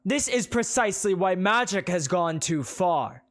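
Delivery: high, loud preaching; preacher condemning magic creatures; loud condemnation. Acted. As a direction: hammer each claim home.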